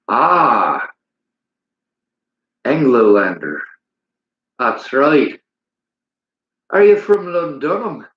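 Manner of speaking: put-on a loose stab at a Scottish accent; mock Scottish accent; bad Scottish accent. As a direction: ham up a Scottish accent, not very well. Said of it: "My Scottish accent sucks".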